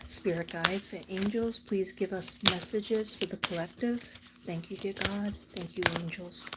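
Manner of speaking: soft, measured prayer; spoken prayer. Real, not acted. Asking spirit guides for messages for the collective, quiet prayer.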